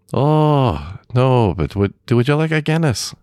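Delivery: high-pitched mock polite offer; imitated pub patrons. Bar patrons answering a lone stranger, high imitated voices. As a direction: pitch it way up, mimicking friendly pub folk.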